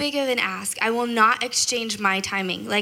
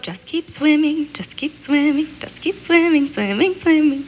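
lightly sung-song, higher cartoon fish voice; half-sung Dory line, pitched up; Dory quote; 6 semitones higher than usual. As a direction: chirp it like a cheerful little fish. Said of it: "uh, Dory quote?".

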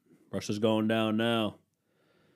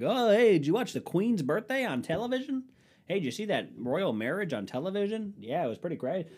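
mock royal fan; 9 semitones higher than usual. Mimicking royal-fan chatter.

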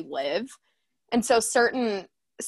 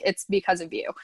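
whispered; 2 semitones lower than usual. Retold or imitated. Telling her boyfriend he made it possible, whispered. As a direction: breathe it to him like a secret.

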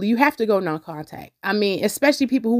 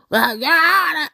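a light imitation of the lady's voice, higher; her way of talking; 5 semitones higher than usual. Imitating how the landlady addressed the judge. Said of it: "This how she talked".

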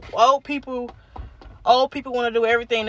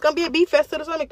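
fast, higher and clearer; said up for the mic; 4 semitones higher, much faster than usual. Real, not acted. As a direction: repeat it faster for the listeners. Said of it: "y'all can't hear that".

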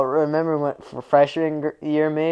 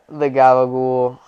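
mock Jersey Italian; 8 dB louder than usual. Sopranos Gabagool bit.

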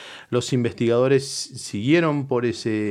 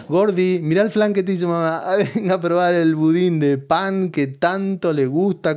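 higher, sweet coaxing mock wife; imitating wife; 5 semitones higher than usual. Wife coaxing husband with dessert, sugary mock voice. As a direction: coax like a doting wife, a bit higher and fast. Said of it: "te dicen".

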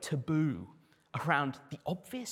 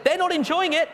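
laughing; 12 semitones higher, 11 dB louder than usual. Real, not acted. Laughing emphatic aside.

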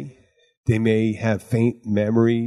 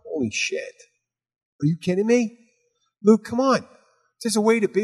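higher-pitched acted protest; mock disbelief; 9 semitones higher than usual. Speaker scolding a co-host for cursing at Siri, acted disbelief. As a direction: retell a shocked scolding, pitched up. Acting out own shocked scolding.

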